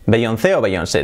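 the name as bey-on-THÉ, then bey-on-SÉ; Spanish bey-on-THÉ or bey-on-SÉ; Spanish pronunciation. Shown as a demonstration. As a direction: stress the last syllable of the name, Spanish style. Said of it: "diríamos".

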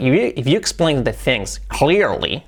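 "clearly" as KLEER-lee in the sentence; measured English model of "explain the things clearly"; careful "things" and "clearly", English vowels; corrected pronunciation. Shown as a demonstration. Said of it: "hay que trabajarla".

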